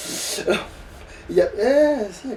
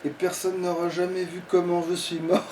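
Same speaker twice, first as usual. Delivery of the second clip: laughing. Real, not acted. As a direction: chuckle through the joke. Joking about dying, laughs.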